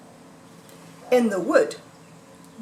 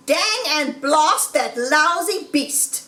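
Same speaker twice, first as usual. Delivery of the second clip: angry cry; 4 semitones higher than usual. Acted. Boggis cursing the thieving fox, mildly angry. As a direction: curse the fox with light annoyance. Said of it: "cried Boggis".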